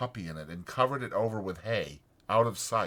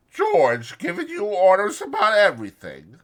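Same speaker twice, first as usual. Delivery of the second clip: Curly's wife, teasing; 10 semitones higher, 8 dB louder than usual. A narrator's reading. Curly's wife teases Lenny, high and coy. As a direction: coo at him playfully.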